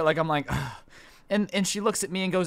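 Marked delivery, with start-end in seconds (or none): 0.5-0.7 short, breathy exhale of disdain; little scoff. Retold or imitated. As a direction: scoff under your breath. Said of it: "I kinda scoff a little bit".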